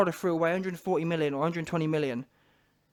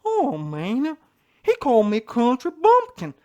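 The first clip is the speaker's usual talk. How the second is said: Wilder's country bumpkin twang, high and loud; 4 semitones higher, 6 dB louder, slower than usual. Retold or imitated. Mocking Wilder's complaint in a country bumpkin twang. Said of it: "he said that in his country bumpkin voice".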